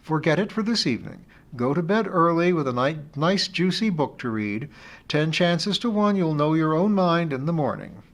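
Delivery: a friend gently teasing her over the phone; friend Amy, fond teasing. Acted.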